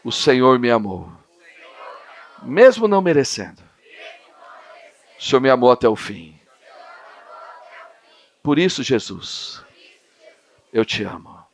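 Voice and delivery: prayer. Real, not acted. Leading a prayer.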